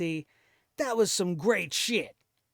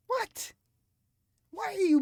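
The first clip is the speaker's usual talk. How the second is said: incredulous what; 11 semitones higher than usual. Real, not acted. Baffled reaction to quote.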